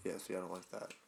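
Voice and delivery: blocked-nose nasal voice. Real, not acted. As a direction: talk through a stuffed nose. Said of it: "why I sound like a nasally motherfucker".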